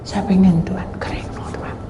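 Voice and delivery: soft, low murmured prayer; doa. Retold or imitated. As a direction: pray under your breath. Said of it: "saya berdoa". (berdoa lirih, setengah berbisik)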